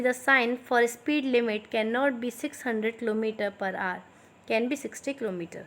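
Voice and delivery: slow, clear dictation pace for students to write. Shown as a demonstration. Teacher dictating slowly to her students. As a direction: spell it out slowly so they can copy. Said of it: "थोड़ा मैं slow slow बोलूँगी".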